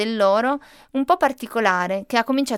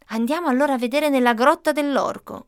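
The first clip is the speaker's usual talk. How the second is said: mild shout; 4 semitones higher than usual. Acted. Arianna calling the group to the ogre's cave, mildly raised. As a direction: call out the idea to the group. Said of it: "gridò Arianna".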